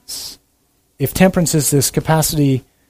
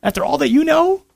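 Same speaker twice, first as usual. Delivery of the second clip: mock accusing evil voice; 7 semitones higher than usual. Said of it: "this little voice is over here saying".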